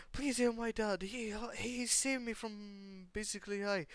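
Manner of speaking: put-on tearful girl. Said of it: "while she mid sobbing".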